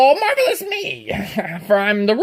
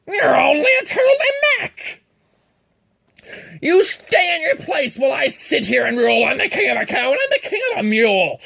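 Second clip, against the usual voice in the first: loud, higher royal rant; thundering king; 4 semitones higher, 6 dB louder than usual. Acted. Yertle thunders at Mac to stay in his place, loud. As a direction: roar down your orders from the throne. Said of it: "his royal voice thundered".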